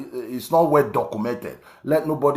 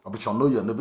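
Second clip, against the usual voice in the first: dismissive name-drop; much faster than usual. Retold or imitated. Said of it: "saying you want to create".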